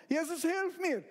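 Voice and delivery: high, loud call for rescue; cry for help. Acted. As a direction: shout like a drowning man. Peter sinking calls out. (lauter Hilferuf)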